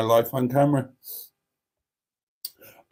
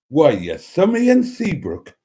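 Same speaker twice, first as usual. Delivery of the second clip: amateur Geordie, pitch leaping up at the end; not very good Geordie accent; 4 semitones higher, 4 dB louder than usual. Shown as a demonstration. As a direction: have another stab at Geordie. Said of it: "I can't do a very good Geordie accent".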